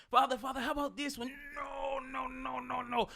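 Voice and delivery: put-on light Jamaican accent, son pleading then father refusing. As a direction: play the Jamaican king and his son. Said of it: "I like that accent".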